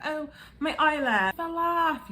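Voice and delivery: high, drawn-out comic wail; mock dismay. Puppy losing an eyelash, high mock dismay. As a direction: exaggerate the silly little woe.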